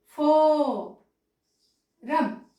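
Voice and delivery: ఫోరం as long ఫో, pause, రం; very slow, broken ఫోరం; syllable by syllable. Shown as a demonstration. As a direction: stretch ఫో, then add రం separately. Teacher splits word into syllables.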